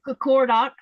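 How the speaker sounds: Kakordok with T as D and Q as K; learner's version. Shown as a demonstration. Learner explaining her pronunciation, plain. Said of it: "So that T is a D sound".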